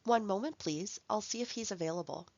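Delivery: even, polite receptionist take; measured and courteous; polite formal phone answer; formal phone reply. Shown as a demonstration. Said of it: "To be more formal".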